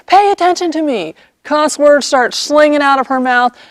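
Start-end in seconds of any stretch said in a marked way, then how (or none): 0.1-1.1 hammed-up furious "Pay attention to me"; mock angry demand. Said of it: "just really mad".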